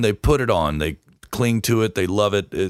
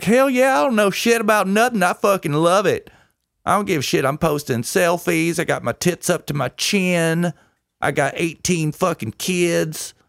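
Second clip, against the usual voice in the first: mock Texan woman; 8 semitones higher than usual. Mocking a Dallas woman in a plaid vest, high and hammed-up. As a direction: play a proud clueless gal, pitched way up. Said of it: "She's like".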